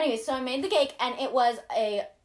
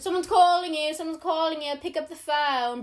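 imitated a singer; 3 semitones higher than usual. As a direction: chant it like a celebrity ringtone. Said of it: "my ringtone is a singer going".

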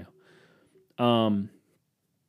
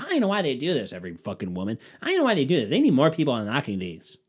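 mock whiny complaint; 4 semitones higher, faster than usual. Man complaining at phone lockers.

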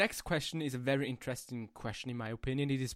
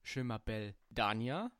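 schoolbook French; 3 semitones lower, 5 dB quieter than usual. Shown as a demonstration. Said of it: "I can try".

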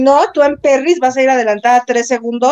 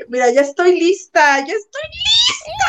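mock cry; 5 semitones higher than usual. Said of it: "Coge cuando hay".

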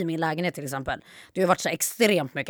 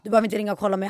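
higher, louder exasperated pushback; annoyed retort; 4 semitones higher, 4 dB louder than usual. Retold or imitated. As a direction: insist you're grown, fed up. Retorts to dad's calls.

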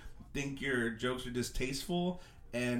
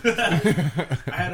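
laughing; 3 semitones higher, 10 dB louder than usual. Real, not acted. Laughs after friend's joke.

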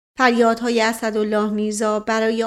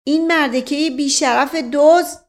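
higher, louder voice of outrage; acted indignant shout; angry cry; 5 semitones higher, 6 dB louder than usual. A narrator's reading. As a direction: hurl the insult loudly. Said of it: "نفس زنان فریاد زد".

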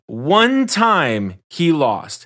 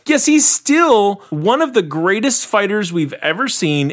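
higher, slow, insistent declaration; emphatic; 5 semitones higher than usual. Real, not acted. Host defending Tony as still among the greatest, emphatic. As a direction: drive every word home emphatically. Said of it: "make my point emphatically enough".

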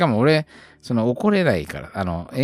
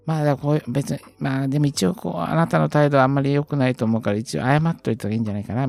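higher-pitched, tentative coaxing to apologise; mild admonishing; 6 semitones higher, faster than usual. Retold or imitated. Telling a child their attitude was poor and to apologise, mildly admonishing. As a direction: re-enact a careful, hedged telling-off in a higher voice.

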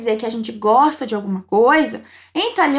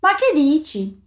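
slow, clear model question; slower than usual. Shown as a demonstration. Teacher models a casual Italian reply, slowly. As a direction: ask it slowly so the learner can copy. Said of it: "Repete pra mim".

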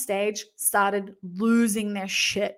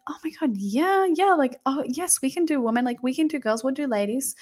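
higher-pitched retold enthusiasm; eager mock agreement; 5 semitones higher than usual. Masseuse agreeing to take women too, eager mock agreement. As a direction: act out an eager sales yes.

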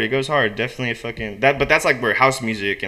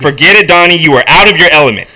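quick, raised-voice brush-off; acted snappish put-down; irritated dismissal; 2 semitones higher, 6 dB louder, faster than usual. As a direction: shut him down loudly. Walter shuts Donnie down in script.

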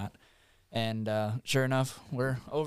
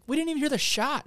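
high-pitched, louder excited retelling; freaking out; 5 dB louder than usual. Retold or imitated. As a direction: replay the thrilled disbelief, voice way up. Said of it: "I'm, like, freaking out".

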